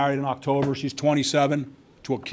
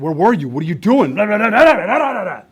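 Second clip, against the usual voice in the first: rising, louder imitated telling-off, trailing into blah blah; mock angry scolding; 6 semitones higher, 6 dB louder than usual. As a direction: ham up the angry dad rant, climbing in pitch. Dad scolding son retold.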